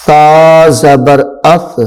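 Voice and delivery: اس as thaa, hiss held back; no whistle. Shown as a demonstration. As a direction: say اس without any whistling s sound. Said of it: "اس میں سیٹی کی آواز ظاہر نہ ہو".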